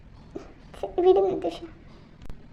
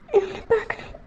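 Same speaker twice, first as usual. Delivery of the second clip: crying softly; 5 dB quieter than usual. Acted. Crying on the phone to friend.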